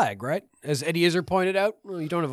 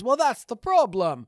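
dry retort; 6 semitones higher, 3 dB louder, slower than usual. Retold or imitated. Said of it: "the response is".

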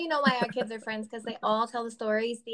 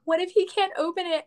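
high-pitched mock-panicky mother; nervous fretting; 7 semitones higher, 3 dB louder than usual. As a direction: worry out loud, hammed up a little. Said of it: "I was especially nervous for my son".

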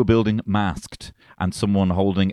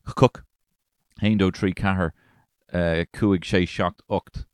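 mock school Irish. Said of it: "the sort of Irish".

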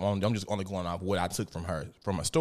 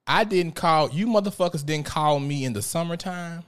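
loud, higher retold telling-off; imitating a fed-up parent on the phone; irate parent; 6 semitones higher, 4 dB louder than usual. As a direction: tell the school off indignantly. Retold parent scolding the school.

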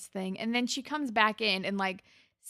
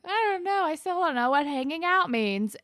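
put-on much higher, confused teen girl whine; mock Emma; 8 semitones higher, 5 dB louder than usual. Friend imitating Emma, high and baffled. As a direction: play Emma lost about what dating means.

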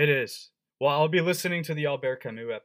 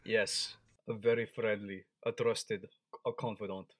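mock-sinister confidant; 4 semitones lower, 6 dB quieter than usual. Playing along as KGB friend.

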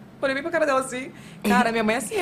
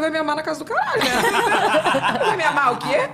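mock scoff; 5 semitones higher than usual. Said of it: "Eu falei".

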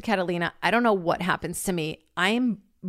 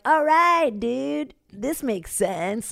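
impressed approval; 6 semitones higher, much slower than usual. Retold or imitated. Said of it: "you're like".

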